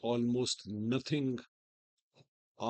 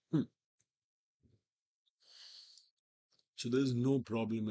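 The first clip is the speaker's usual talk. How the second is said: hoarse, strained from a sore throat. Real, not acted. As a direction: talk through a sore throat. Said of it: "I have a sore throat".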